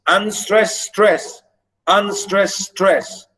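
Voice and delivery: "unstressed stress" slowly paced, landing on stress; deliberate two-beat pattern on "unstressed stress"; iambic beat. Shown as a demonstration. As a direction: chant unstressed, then STRESS, twice. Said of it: "which is called iambic".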